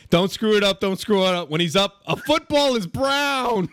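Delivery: building to a mock shout; mock pep talk. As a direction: pump yourself up, ending in a shout. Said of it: "Sergio, right before his hit".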